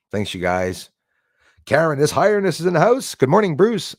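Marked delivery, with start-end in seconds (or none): 1.6-4.0 loud, raised-pitch announcement; hearty shout-out. Real, not acted. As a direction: call out a greeting to the chat. Greeting viewers in live chat.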